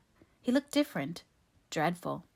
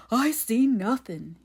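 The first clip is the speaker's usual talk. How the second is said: slow, high, louder dialect wail; frightened simpleton Ben; 5 semitones higher, 6 dB louder, slower than usual. A narrator's reading. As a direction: shrink away, denying everything. Ben's simpleton voice.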